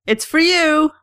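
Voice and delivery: loud, high yell upward; yelling up the stairs. Retold or imitated. Daughter telling her dad about the call, a loud high yell. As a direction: throw it up the stairwell. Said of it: "I yell up the stairs at him".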